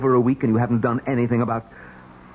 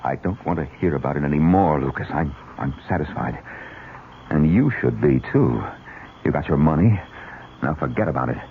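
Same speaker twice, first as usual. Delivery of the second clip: stern; 4 semitones lower than usual. Acted. David cutting off the hired killer.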